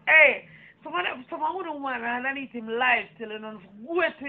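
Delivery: loud opening Hey, then hammering on; loud rant. Real, not acted. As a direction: berate her loudly.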